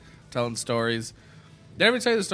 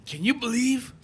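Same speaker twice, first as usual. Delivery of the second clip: put-on drunk mom ranting; 6 semitones higher, slower than usual. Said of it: "She goes".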